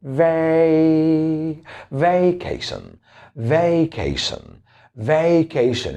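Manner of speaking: slow "vacation" as vay-KAY-shun, stress on KAY; teacher drilling the American "vacation"; model pronunciation. Shown as a demonstration. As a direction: drill "vacation" slowly, first syllable split off. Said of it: "remember to pronounce it this way".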